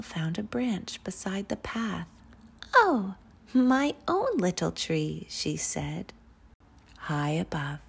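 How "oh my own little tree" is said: higher, louder cry of delight; light up with a child's happy wonder; delighted little girl. A narrator's reading. Noelle finding a branch by the path, delighted.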